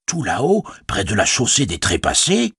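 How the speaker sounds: questioning, unsure innkeeper; doubtful innkeeper. Acted. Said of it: "l'air encore plus dubitatif".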